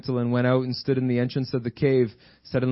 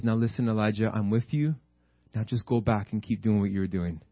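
sweet, loving; 2 semitones lower, 3 dB quieter than usual. Acted. God to Elijah, encouraging him onward, lovingly soft. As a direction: gently send him on his way. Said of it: "He speaks to him in such a sweet, loving way".

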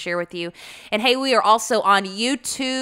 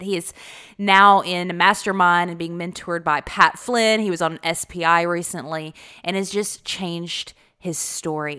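hoarse from a cold; croaky cold-season voice; frog voice. Real, not acted. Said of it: "Forgive my crazy frog voice".

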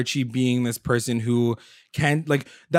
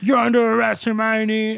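stern cop voice; 8 semitones higher than usual. Retold or imitated. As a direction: bark it like an arresting agent. FBI breaking in, arresting her.

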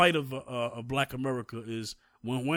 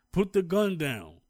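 retold yell; 4 semitones higher than usual. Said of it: "they're yelling".

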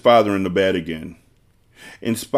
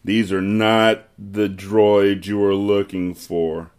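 Jedi mind trick voice; slower than usual. Pretend.

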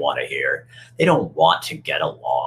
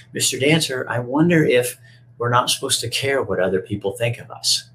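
put-on little boy voice; 5 semitones higher than usual. Five-year-old boy quoted.

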